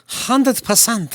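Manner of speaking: high, slow, stretched-out emphasis; emphatic high drawl. Acted. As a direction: draw it out way up high for effect. Repeats it drawn out, high.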